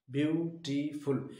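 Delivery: ब्यूटीफुल drawn out slowly, syllable by syllable; slow syllable demo. Shown as a demonstration. Teacher to students counting syllables, slow syllable demo. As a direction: spell out ब्यूटीफुल slowly so each syllable is heard. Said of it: "इसमें कितनी sounds हैं".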